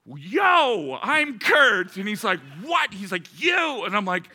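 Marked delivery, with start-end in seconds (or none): 0.0-2.0 louder and higher, calling out to snap him out of it; loud greeting. Retold or imitated. To the stunned Porsche owner, a loud jolting hello. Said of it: "break through the shock". 2.6-2.9 a high, loud startled yelp; stunned what. Retold or imitated. Retelling the dazed Porsche owner, a high shouted "what". 3.4-3.8 dazed shout. Retold or imitated. Stunned owner retold.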